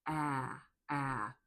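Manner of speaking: "Ah" as the short vowel in cat; open vowel demo. Shown as a demonstration. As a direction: say "Ah" with a dropped jaw, twice. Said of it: "drop your jaw really low".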